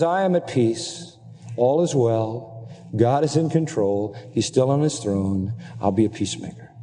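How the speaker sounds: slow, settled and assured; calm inner peace. Pretend. Preacher voicing a believer's peaceful trust, slow and calm. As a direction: let each phrase rest, calm and certain. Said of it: "that attitude that says".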